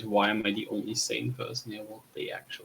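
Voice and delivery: quiet muttered thought, fading; inner thought. Acted. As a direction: think it aloud, barely voiced. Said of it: "my character just thinking in his own mind".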